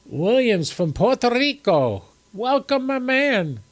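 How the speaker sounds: high, drawn-out welcome; enthusiastic shout-out. Real, not acted. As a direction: hail a newcomer with real excitement. Greeting a viewer joining the chat.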